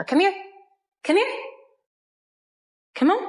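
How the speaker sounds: high sing-song call to the dogs; dog-calling coo. Real, not acted. Owner calling her dog over in a high, coaxing voice. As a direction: coax the dog over brightly.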